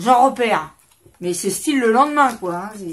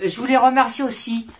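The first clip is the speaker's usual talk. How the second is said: a light hint of a Belgian accent on « Je voulais remercier aussi »; 2 semitones higher, 4 dB louder than usual. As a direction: playfully put on a mild Belgian accent. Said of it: "je fais l'accent belge". (léger accent belge pour rire)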